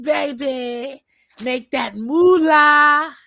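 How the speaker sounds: drawn-out hype shout; cheering. Real, not acted. Cheering a friend back to school, loud drawn-out hype. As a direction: cheer her on slowly and loudly.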